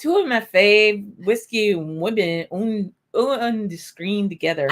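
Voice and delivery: slow, lightly hammed-up Scottish lilt; mock Scottish accent, badly done. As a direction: attempt a drawn-out Scottish accent, playfully. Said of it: "we have the Scottish version of".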